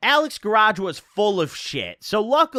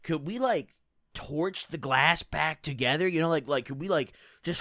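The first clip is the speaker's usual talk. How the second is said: inner thought voice; 3 semitones lower, 5 dB quieter than usual. Retold or imitated. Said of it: "I'm thinking in my head".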